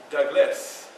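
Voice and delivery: "Douglas" with a full second syllable and sounded final S. Shown as a demonstration. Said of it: "you say my name politely".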